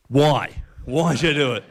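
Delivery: amused, incredulous why; laughing disbelief. Retold or imitated. To the driver who cut him off, laughing. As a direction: laugh through the question in mock exasperation. Retelling frustration at missed turns.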